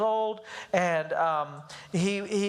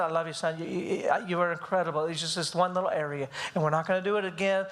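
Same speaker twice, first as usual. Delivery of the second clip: lower, gentle retold comforting; tender reassurance; 4 semitones lower than usual. Dad hugs his son after spanking, tender reassurance. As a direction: reassure as if holding a child. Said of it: "I'm hugging him".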